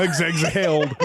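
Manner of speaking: "exhaled" restarted as "eks-HALED"; careful "exhaled". Shown as a demonstration. Reader tackling the weird word "exhaled", laughing correction. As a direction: stumble on the x, then land "exhaled" with laughter. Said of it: "Why is that such a weird word?".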